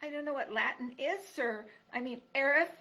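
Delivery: small high pleading voice; tiny scared mouse, begging; timid mouse voice. Acted. Mouse Poppy.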